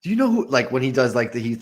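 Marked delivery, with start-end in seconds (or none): 0.0-0.5 mock yell. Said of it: "he's yelling at himself".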